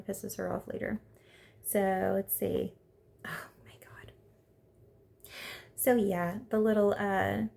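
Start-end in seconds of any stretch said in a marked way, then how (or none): 3.2-4.1 breathless whisper of disbelief; whispered oh my God. Real, not acted. Vlogger reacting to a dating show, whispered. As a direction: hush it under your breath.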